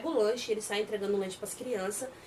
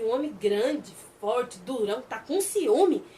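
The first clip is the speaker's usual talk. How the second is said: slow, louder sly tease; teasing question; 5 dB louder, slower than usual. Acted. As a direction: drag it out to needle him. Teasing a jealous man.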